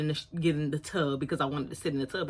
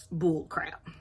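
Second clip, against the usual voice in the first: whispered aside. Real, not acted. Censoring herself, whispered aside. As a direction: whisper the swear.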